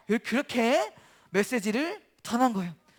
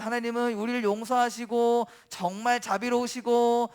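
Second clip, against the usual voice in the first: acted sarcastic praise of God. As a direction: pile on mock compliments. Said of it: "이러면서 막 되게 비꼬기 시작해요".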